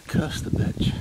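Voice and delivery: breathy whispered curse under the breath; whispered Welsh-free curse at the owl. Real, not acted. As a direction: hiss it so the owl won't hear. Hushed curse while watching owl.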